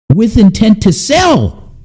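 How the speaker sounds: "sell" stressed high and slow; incredulous emphasis. Real, not acted. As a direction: drag out "with intent to sell" in disbelief. Outraged rhetorical question.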